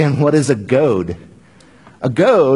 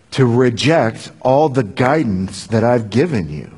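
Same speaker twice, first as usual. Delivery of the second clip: tender God; 3 semitones lower than usual. Acted. God voiced speaking to Saul.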